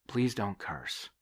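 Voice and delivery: slow, stern priest's rebuke; a priest scolding the woman, slow and firm. Acted. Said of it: "John said sternly".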